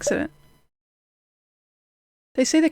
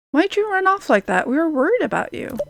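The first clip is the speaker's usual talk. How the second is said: worried scolding; 4 semitones higher than usual. Acted. Worried friend scolds runaway.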